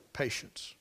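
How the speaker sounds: "Patience" breathed as a whisper; whispered echo. Shown as a demonstration. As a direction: let the word hang in a whisper. Repeats key word whispered.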